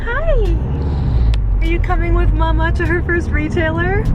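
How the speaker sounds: high sing-song pet voice. Real, not acted. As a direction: coo at the dog, high and bright. Talking to dog.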